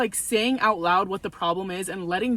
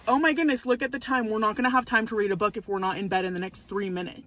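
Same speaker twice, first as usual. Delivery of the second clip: mock alarm. Shown as a demonstration. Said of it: "if I say".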